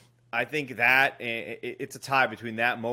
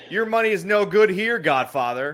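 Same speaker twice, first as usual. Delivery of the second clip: grand proclamation; 4 semitones higher, 7 dB louder than usual. Retold or imitated. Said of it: "and he goes".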